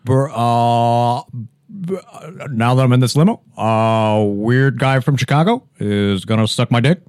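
lightly voiced halting president; measured statesman impression with long "uh"; mock presidential address, hesitant pauses; Barack Obama. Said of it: "Barack and Michelle Obama's relationship".

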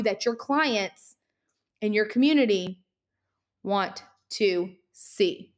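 winded, breathing hard between phrases. Real, not acted. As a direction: talk while catching your breath. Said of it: "I'm literally winded".

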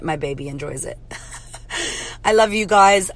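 ordinary delivery

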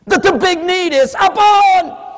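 high, loud, slow upon; preacher's emphatic shout; shouted correction. Real, not acted. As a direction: hammer the word upon. Preaching climax.

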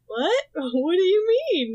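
Veronica's puzzled innocent act, lightly voiced; playing innocent.

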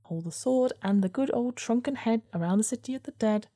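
lightly voiced weasel. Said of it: "says the weasel".

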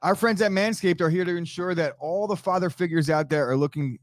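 bouncy ad-read delivery; sponsor ad read. Acted. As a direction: sell the sponsor line. Cohost reads sponsor ad.

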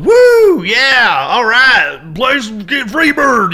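high, loud concert whoops; rowdy crowd yelling. Acted. Rowdy audience at a live band show, whooping and yelling. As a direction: holler requests at the band. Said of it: "you're used to going".

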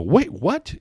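high, amazed "wait, what?"; surprised. Retold or imitated. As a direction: gasp out the surprise in a high pitch. Acted surprised listener reaction.

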